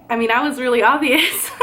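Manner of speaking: fast and laughing through the words. Real, not acted. Admitting her fear was obvious, laughing it off. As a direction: laugh it off quickly.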